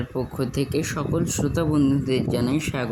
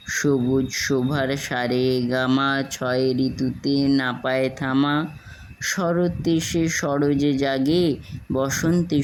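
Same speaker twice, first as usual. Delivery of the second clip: measured, drawn-out verse reading in Bengali; poem recitation. Acted. Reciter performing Satyendranath Dutta's Sobuj Pori for listeners, lyrical poem recitation. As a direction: recite it line by line, lingering on the rhythm.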